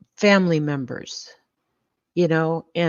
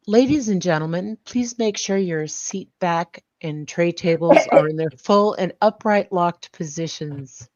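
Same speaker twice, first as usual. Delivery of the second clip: flight attendant. Pretend. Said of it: "I'd like to do a service announcement".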